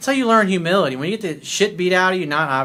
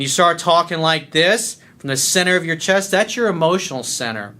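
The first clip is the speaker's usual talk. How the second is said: raised voice from mid-chest; speaking from the chest. Shown as a demonstration. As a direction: project firmly from the breastbone. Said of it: "if you start speaking from here, you raise your voice".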